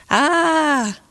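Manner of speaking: high, drawn-out "ah" cry; storyteller's restrained scream; mild narrated scream. A narrator's reading. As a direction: cry out a long, high "ah", contained.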